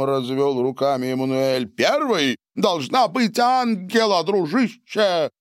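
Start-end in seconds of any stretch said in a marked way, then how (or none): 1.7-5.3 much higher shout across the table. A narrator's reading. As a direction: call it out to the whole room. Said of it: "выкрикнул Сильвио".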